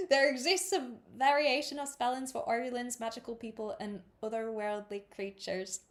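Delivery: amateur Irish accent drifting towards Scottish; Irish slipping into Scottish. Shown as a demonstration. Reader attempting the note, Irish accent drifting into Scottish. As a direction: read in Irish, let it slide Scottish. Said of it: "no, that was Scottish".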